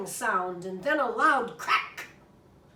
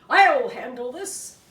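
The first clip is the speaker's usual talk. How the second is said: bravado; 9 dB louder than usual. Acted. Brother takes charge bravely.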